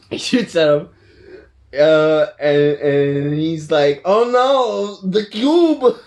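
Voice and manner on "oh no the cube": high, loud, hammed-up cry; mock villain alarm. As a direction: wail it like a thwarted cartoon villain. Red Skull's cry, acted in retelling.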